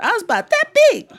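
high, laughing remark; laughing aside. Real, not acted. Storyteller laughs to the audience about being small. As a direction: laugh as you say it.

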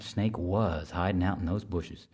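plain reading voice

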